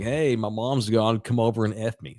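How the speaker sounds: put-on quoting a girl's nonchalant booty call; retold casual come-on. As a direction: stretch the "hey", then toss off the invitation. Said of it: "That's how she said it".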